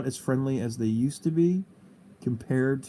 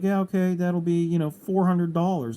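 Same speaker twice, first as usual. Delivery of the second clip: mock taxi driver; 5 semitones higher, 5 dB louder than usual. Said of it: "the guy's like".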